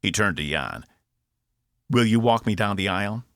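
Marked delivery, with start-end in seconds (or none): 1.9-3.2 lightly voiced chirpy Cockney robot; Cockney robot, cheeky. Box asks Jan to walk him down the aisle, cheeky Cockney. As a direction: ask it cheekily with a touch of Cockney. Box's held Cockney character voice.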